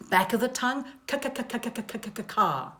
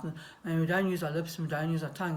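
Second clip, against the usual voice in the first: lazy mouth; 2 semitones lower, faster than usual. Shown as a demonstration. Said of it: "we can just talk like that".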